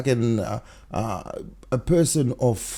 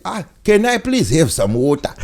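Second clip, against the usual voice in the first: imitating an African accent, lightly; a light African accent on the request for water; 4 semitones higher, 4 dB louder than usual. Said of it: "in an African accent, you said".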